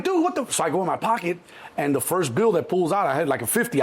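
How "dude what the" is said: very high-pitched cut-off protest; exasperated. Retold or imitated. Passenger to refusing driver, exasperated. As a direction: squeak out your exasperation.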